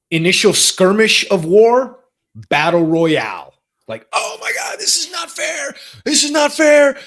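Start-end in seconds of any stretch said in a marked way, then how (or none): 4.1-7.0 high-pitched mock outburst; mock yell. Dad mimicking daughter's unfair complaint. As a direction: imitate a kid's shrill protest. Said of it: "My daughter's yelling".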